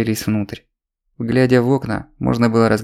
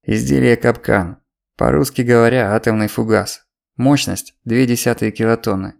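showman announcing a deadly act. Acted. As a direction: present it like a deadly stunt. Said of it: "произнёс как конферансье, объявляющий смертельный номер".

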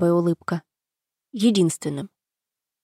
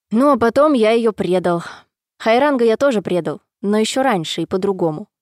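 through gritted teeth. Acted. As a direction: spit it out through clenched jaw. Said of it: "бросил сквозь зубы". (сквозь зубы)

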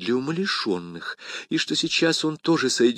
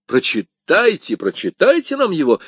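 loud eager demand; D'Artagnan calling for the poem, louder; exclaiming; 5 semitones higher, 5 dB louder than usual. A narrator's reading. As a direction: press them cheerfully. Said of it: "вскричал Д'Артаньян".

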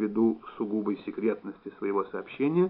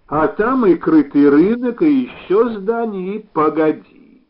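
loud, high, stretched-out urging; raised, emphatic storybook excitement; excited insistence; 8 semitones higher, 12 dB louder, slower than usual. A narrator's reading. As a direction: pile it up with rising excitement. Excited plan tumbles out, interrupting.

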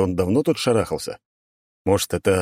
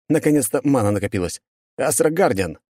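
triumphant shout; 6 semitones higher than usual. Acted. Hero casts spell.

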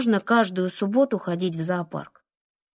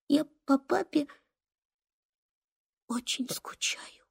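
fading from soft to a bare whisper; trailing whisper; 5 semitones higher, 9 dB quieter than usual. Acted. Boy telling mum he misses his father, fading whisper. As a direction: let the words die into a breath.

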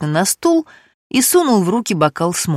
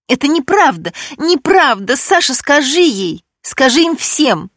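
high, loud, pleading on the edge of tears; tearful protest; 8 semitones higher, 3 dB louder than usual. Acted. Alexandra near tears, begging Sasha to defend her. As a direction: beg him to back her up, near sobbing. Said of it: "залилась слезами".

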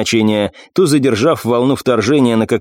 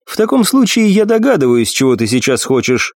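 commanding warrior goddess; 3 semitones higher than usual. Acted. Nephrite voiced, higher.

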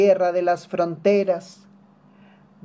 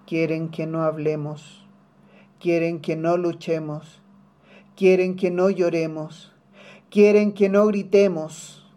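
repeated lines building from restrained to forceful; building defiance. Acted. Anáfora que crece hasta gritemos. (desafío que crece verso a verso)

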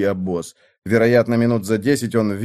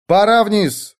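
order; 7 semitones higher, slower than usual. A narrator's reading. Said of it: "приказал Эрвин".

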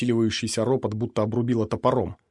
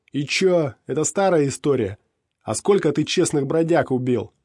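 hostile challenge; 5 semitones higher, 5 dB louder than usual. A narrator's reading. Skinny man challenges mercenary.

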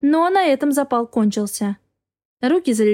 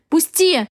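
angry cry; 5 semitones higher than usual. Acted. Wife struggling against her husband, shouting. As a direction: fight your way out with the word.

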